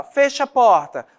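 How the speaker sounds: "Feche a porta" dito como ordem firme, mais alto e agudo. Shown as a demonstration. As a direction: mande fechar a porta, firme. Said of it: "uma ordem". (ordem firme e lenta)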